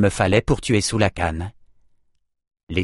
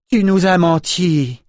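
high, slow, furious roar of betrayal; slow high-pitched angry roar; roaring accusation; 7 semitones higher, 3 dB louder, slower than usual. A narrator's reading. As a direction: roar it at the liar. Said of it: "rugit Nietzsche".

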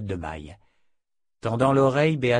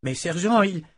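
frustrated; 6 semitones higher than usual. A narrator's reading. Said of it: "commença Estelle, visiblement frustrée".

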